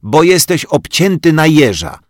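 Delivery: put-on girl snorting at the boy's buzz cut; scoffing. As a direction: sniff at him. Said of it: "prychnęła Rozalka".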